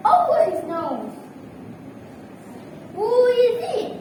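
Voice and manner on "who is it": high, put-on voice calling through the door; the wolf hiding his own voice, pitched up; wolf's disguised voice. A narrator's reading. Wolf in bed calls to the knocking girl, high put-on voice. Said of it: "he called on a catchy voice".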